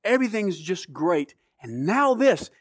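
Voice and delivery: mild mock outburst at God, building; retold frustration at God. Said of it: "because I got mad at God".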